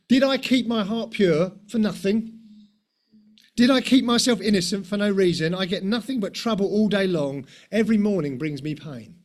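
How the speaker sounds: a light hint of a hurt, whiny complaint to God; voicing self-pity, understated; mild self-pitying lament. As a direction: sigh it out like a believer feeling sorry for himself. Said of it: "that's the sound of self-pity".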